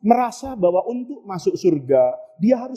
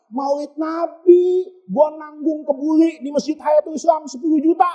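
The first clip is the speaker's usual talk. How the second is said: boasting husband; 5 semitones higher than usual. Retold or imitated. Husband boasts of his donation.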